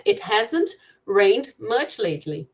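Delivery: slow, careful example reading; teacher spelling out an example sentence slowly. Shown as a demonstration. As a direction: read it out slowly for the students. Teacher reads English example slowly.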